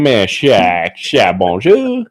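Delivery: slow, drawn-out mild Cajun sha; a touch of Cajun French; Cajun accent. Shown as a demonstration. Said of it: "I start saying".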